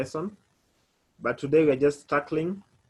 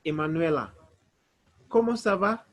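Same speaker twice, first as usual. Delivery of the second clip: asking a student; 2 semitones higher than usual. Pretend. Teacher asking Emanuela how she is. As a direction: greet the student with a lifted question. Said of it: "If I ask you".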